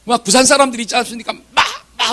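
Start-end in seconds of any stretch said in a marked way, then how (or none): 1.3-2.1 short, punchy Busan crowd calls; imitated fan shouting. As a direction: holler like a Busan baseball fan. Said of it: "외치면 막 귀가 막 떨어져 나가요". (부산 팬 외침 흉내)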